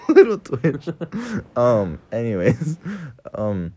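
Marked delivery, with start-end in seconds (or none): 0.1-0.9 high, slow, cutesy voice; cute tiny voice. Acted. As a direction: say it like something small and adorable. Cute little twitch bit.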